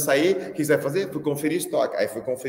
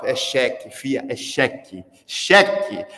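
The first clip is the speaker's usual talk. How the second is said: exasperated mock reply; 3 semitones lower, 4 dB louder, much slower than usual. Exasperated answer to cashier.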